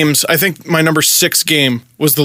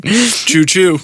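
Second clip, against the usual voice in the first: train choo choo. Pretend. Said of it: "It's like a train".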